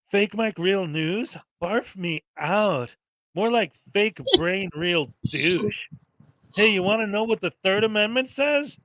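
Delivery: lightly voiced Valley Girl sass; a hint of a snarky Valley Girl; Radical Brittany Valley Girl. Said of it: "when you do the Valley Girl voice".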